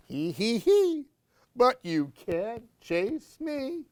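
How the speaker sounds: mock giggle rising high; giggling boy. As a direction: tease like a child running away. Gabriel giggles.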